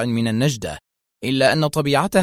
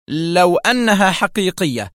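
slow, higher, guarded qualification; very cautious; 6 semitones higher, 4 dB louder than usual. A narrator's reading. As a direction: add the condition warily. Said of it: "ثم استدركت في حذر شديد". (حذر شديد)

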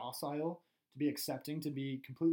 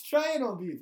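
mock ad jingle; 7 semitones higher, 7 dB louder than usual. Mock fifties commercial slogan.

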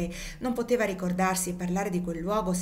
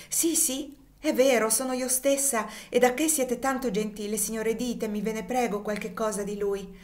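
eager pleading; 4 semitones higher than usual. Acted. Sister begging the young gentleman for news, eager. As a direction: beg him for news of her brother.

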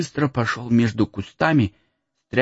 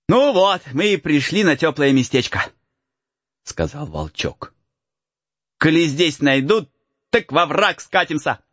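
put-on light higher boyish voice; cheeky peasant boy; 6 semitones higher than usual. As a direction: tease the lost boy. Boy character voice.

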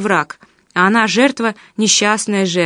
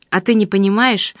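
plain reading voice

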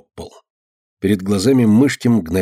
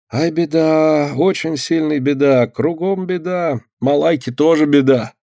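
lamenting helper; 6 semitones higher, slower than usual. Acted. Malaika laments the misfortune.

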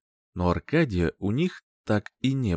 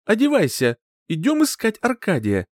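higher, louder command; mother ordering her partner; grim order; 10 semitones higher, 4 dB louder than usual. A narrator's reading. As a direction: order him out. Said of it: "хмуро приказала".

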